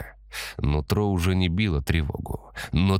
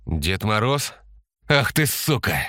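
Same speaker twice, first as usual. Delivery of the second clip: hissed curse; 6 semitones higher than usual. A narrator's reading. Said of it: "прошипел Антон".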